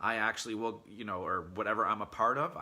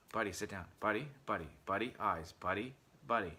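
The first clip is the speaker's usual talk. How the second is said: imitating a chatty dog owner; 2 semitones lower than usual. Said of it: "You think about all that talking".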